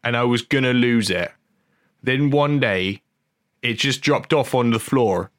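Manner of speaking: lightly put-on Norfolk country accent; comic attempt at a Norfolk accent; Hot Fuzz voice. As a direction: read the quote in mock Norfolk. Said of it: "Hot Fuzz voice".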